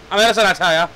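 lightly voiced old-time crook protesting innocence; put-on wise-guy voice. Convict protesting the murder charge, put-on wise-guy voice. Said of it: "Why am I talking like this?".

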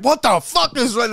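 mock exasperated outburst, high-pitched; Pedro. Fed-up podcast host snaps at rambling guests, retold angry outburst. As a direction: imitate someone finally snapping. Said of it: "he finally snaps".

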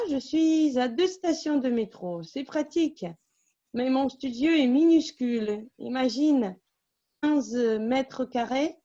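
clear, measured textbook reading in French; story reading. A narrator's reading. Teacher reads a French story to students, steady narration. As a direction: read the dialogue story aloud for the class.

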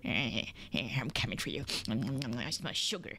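deep, slow creature stalking; menacing ant voice. Pretend. Ant hunting for sugar, low slow menace. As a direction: creep along low and drawn out.

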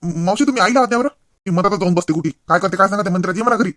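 husband urging the aunt to call his mother; urgent call. Acted. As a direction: hurry her to fetch mother. Husband calls for help urgently.

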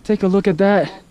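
rising awe as the sun sets; excited calling out. Real, not acted. Calling out at sunset view.

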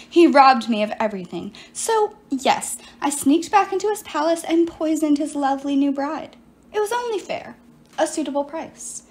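lightly voiced sorceress, self-pitying; a hint of a wronged enchantress pleading her case; sorceress Medea. Medea explains herself to Piper, lightly voiced silky sorceress.

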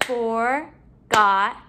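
"Forgotten" slowly, in three beats; syllable by syllable. Shown as a demonstration. Teacher counting syllables in the word, broken up. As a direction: break "Forgotten" apart with clear pauses. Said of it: "break up our syllables".

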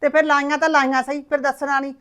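mother raising her voice at her daughter; heated retort. Acted. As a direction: push back hard at the daughter.

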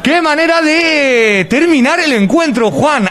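high, elated play-by-play; excited commentary. Real, not acted. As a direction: celebrate the goal as you call it. Celebrating surprise goal.

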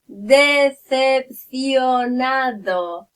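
Decepcionado drawn out very slowly with lisped c sounds; lisped pronunciation. Shown as a demonstration. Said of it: "Trzeba se plenić".

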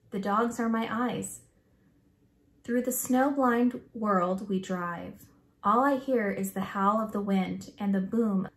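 put-on expressive, measured read-aloud for children; story read-aloud. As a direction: read the picture book aloud with feeling.

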